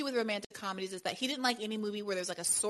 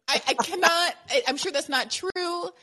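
laughing; 7 semitones higher, 5 dB louder than usual. Real, not acted. Laughing at her own confession.

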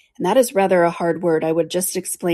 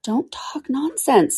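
boldly; 7 semitones higher, much slower than usual. Acted. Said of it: "said Alice more boldly".

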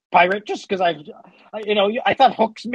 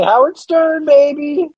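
kraken voice; 6 semitones higher, 5 dB louder, slower than usual. Acted. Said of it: "I'm a kraken".

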